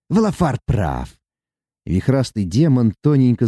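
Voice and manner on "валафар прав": dry, gloomy dwarf voice. A narrator's reading. Bald dwarf gloomily agreeing with Valafar. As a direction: state it sullenly. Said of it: "Тот мрачно произнёс".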